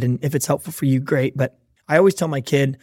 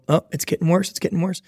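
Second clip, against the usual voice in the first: escalating warning; 3 semitones higher than usual. Acted. Acts out warning as excuses continue.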